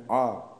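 short, clipped vowel a, one beat. Shown as a demonstration. Teacher demonstrating to students, short अ. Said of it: "इतने कहने से आपको जैसे बोध होता है".

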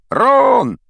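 loud, high shout across the stairs; yelled name. A narrator's reading. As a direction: yell the name to stop him. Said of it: "громко заорал".

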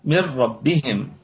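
من ربهم as مِرَّبِّهِم, full idgham; tajweed recitation. Shown as a demonstration. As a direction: recite من ربهم with the nun merged into the ra, no nasal hum. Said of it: "الراء مشددة مفخمة". (تلاوة من ربهم بإدغام كامل بغير غنة)

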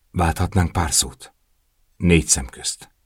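soft, tight words squeezed through the teeth; through gritted teeth. A narrator's reading. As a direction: Bianca pressing Matteo quietly for a private word. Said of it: "Szűrte ki a fogai között".

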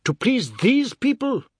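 very high, loud scream. Acted. Husband screaming at his wife for an answer, scream. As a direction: scream the demand at her. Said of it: "he screamed".

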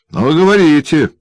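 bare your teeth and snarl it; snarling dwarf. A narrator's reading. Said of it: "прорычал карлик, злобно оскалив зубы". (злобный рык карлика, оскалив зубы)

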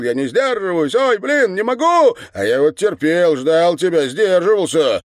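high, loud strained cries; losing control; cry out. A narrator's reading. Andrey cries out during the scene, high and loud. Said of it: "вскрикнул".

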